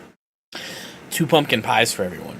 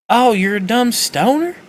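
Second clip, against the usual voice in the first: mock outrage; 10 semitones higher, 4 dB louder than usual. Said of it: "And they're like".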